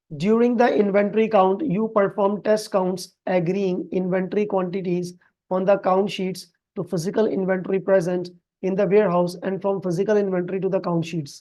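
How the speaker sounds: reads the English question out slowly and evenly; slow, careful reading of an exam question. Acted. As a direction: read each phrase of the question slowly.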